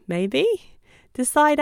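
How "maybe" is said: light rising maybe; questioning maybe. Shown as a demonstration. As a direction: toss it up as a question. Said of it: "carry on with the training".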